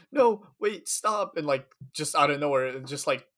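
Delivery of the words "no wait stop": high, loud call to halt; urgent call. Retold or imitated. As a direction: yell at the men to stop. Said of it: "and he's like".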